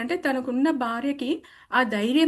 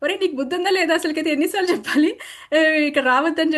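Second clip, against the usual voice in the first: quick, slightly raised mock scolding; retold scolding shout; 3 semitones higher than usual. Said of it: "ఆ పిల్లోని గట్టిగా అరిచాను".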